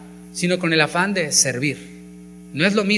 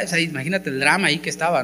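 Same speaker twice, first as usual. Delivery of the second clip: ordinary delivery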